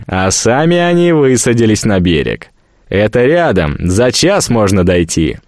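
rally the crew with pomp; rousing speech. Acted. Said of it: "Ответ был не менее пафосным".

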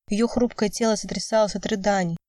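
usual speaking voice

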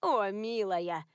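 put-on slow, pitying old woman; lightly voiced elderly lady, fond and sorry; tender sigh. A narrator's reading. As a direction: soften toward the girl. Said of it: "покачала женщина головой".

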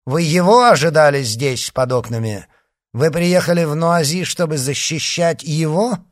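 high, loud questioning; insistent interrogation. Acted. Leader grills D'Artagnan under the windows, insistent. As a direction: press hard for an answer.

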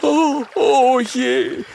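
high, loud slow wailing lament; spiny dragon wailing in despair; despairing sigh. Acted. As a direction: moan it out in despair. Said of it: "mit einem verzweifelten Seufzer".

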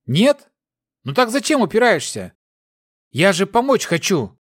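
high urgent persuading voice; pleading. A narrator's reading. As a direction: press him hard to accept help. Aberon pleading with Grats.

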